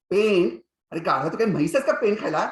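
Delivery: loud, fast, scornful scolding; angry scolding teacher. Acted. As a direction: snap at the boy like a cross schoolmaster. (रागावलेल्या मास्तरांचा जलद, मोठा ओरडा)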